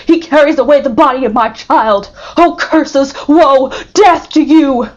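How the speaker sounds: high, loud, raging curse; furious curses. A narrator's reading. Father cursing the man who took his child. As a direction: hurl the curses at him in fury. Villefort cursing Monte Cristo.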